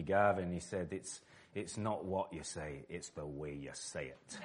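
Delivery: a hint of a broad Scottish accent, slow; understated Scottish accent, slow. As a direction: lightly imitate a Scottish pundit's slow advice. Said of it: "in that really broad Scottish accent".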